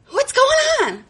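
put-on high, strained kid's cry for help; stuck kid calling out. Trapped girl calls cousins, high panicked plea. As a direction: call up the chute like a trapped nine-year-old.

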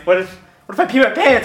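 fast, anxious retold question; panicky worrying. Texting a friend before the audition, panicky worrying. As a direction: rush it out like nervous texting. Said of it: "panicking the whole time".

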